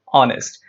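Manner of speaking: "Honest" said as "onest"; silent H. Shown as a demonstration. Teacher repeating for students, "Honest" with a silent H. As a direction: start "Honest" straight on the vowel. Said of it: "The letter H is silent".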